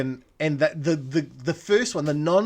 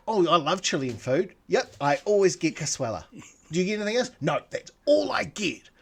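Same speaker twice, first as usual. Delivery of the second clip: mock customer; 4 semitones higher than usual. Imagined dialogue mocking.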